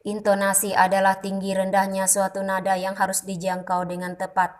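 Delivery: "Intonasi adalah tinggi rendahnya" on one level pitch, no rises or falls; flat monotone. Shown as a demonstration. Teacher showing speech without intonation, deliberately monotone. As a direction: drone it like a robot. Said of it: "seperti itu bunyi ... tanpa intonasi, datar saja".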